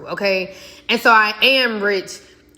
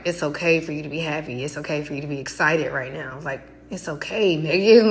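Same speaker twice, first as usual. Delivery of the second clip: tag reassuring; 4 semitones lower, 4 dB quieter than usual. Retold or imitated. Retelling a comforting talk in the car.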